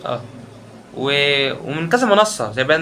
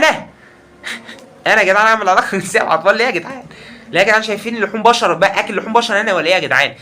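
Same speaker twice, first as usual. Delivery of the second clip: indignant outburst; 6 semitones higher, faster than usual. Real, not acted. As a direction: protest in outrage. Outraged at the accusation. (احتجاج غاضب)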